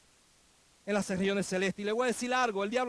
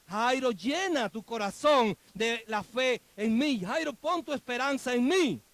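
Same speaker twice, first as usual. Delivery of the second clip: Jesús; slower than usual. Acted. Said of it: "Jesús le está diciendo a Jairo".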